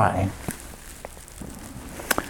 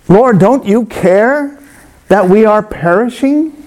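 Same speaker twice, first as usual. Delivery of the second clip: higher, slow desperate cry to Jesus; panicked plea; 7 semitones higher than usual. Acted. Disciples wake Jesus in the storm, pleading in panic. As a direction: beg as if the boat is sinking.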